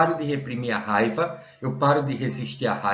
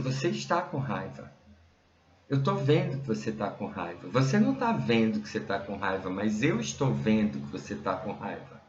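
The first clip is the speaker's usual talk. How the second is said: calm insistence; 3 semitones lower, 4 dB quieter than usual. Retold or imitated. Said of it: "Ela dizia".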